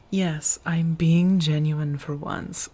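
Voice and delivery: slow sincere whisper. Acted. Insisting she's sincere.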